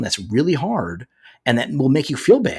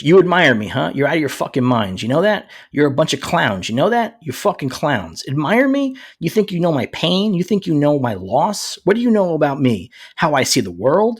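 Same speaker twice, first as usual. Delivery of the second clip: mock aggressive speech, pitched up a little; Punisher; 2 semitones higher, 3 dB louder than usual. Co-host reads out the show's speech, hammed-up indignation. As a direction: rant it as indignant rhetorical challenges. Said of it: "here's the speech that he gives".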